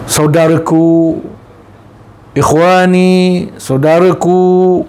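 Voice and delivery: slow and tender, each word drawn out. Acted. The Prophet tells Abu Bakar of his brothers, tender and slow. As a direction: linger lovingly on each word.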